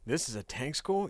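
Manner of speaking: rising, questioning tone. Acted. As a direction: read it as a doubtful question, lifting on "school". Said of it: "you say questioningly".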